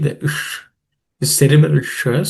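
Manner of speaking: "ish" as a hushed retroflex sh; cerebral SH. Shown as a demonstration. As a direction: curl the tongue tip up for the sh in "ish". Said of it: "tip of the tongue should point up".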